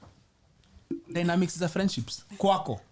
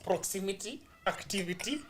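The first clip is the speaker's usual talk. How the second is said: motivational speaker; 7 dB quieter than usual. Shown as a demonstration. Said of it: "speaking like a motivational speaker".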